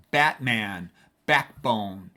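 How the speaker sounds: Batman, backbone with both syllables stressed and drawn out; weight both halves of Batman and backbone; double stress. Shown as a demonstration. Teacher showing double-stressed words, Batman and backbone stressed on both syllables. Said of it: "double stressed word".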